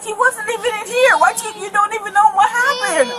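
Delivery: real tearful outburst; shouting through tears in distress; a mother tells police of the fight, crying and shouting. Real, not acted.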